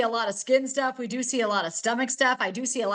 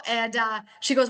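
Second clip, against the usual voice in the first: ordinary delivery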